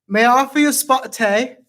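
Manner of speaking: hammed-up British tea-time accent. Shown as a demonstration. Player attempting the accent the game gave him, British accent. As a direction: have a go at a playful British accent. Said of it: "British accent".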